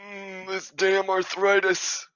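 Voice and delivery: put-on slow, high, loud old-timer's grumble; put-on old voice, drawn out; old, achy character. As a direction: complain loudly like an aching elder.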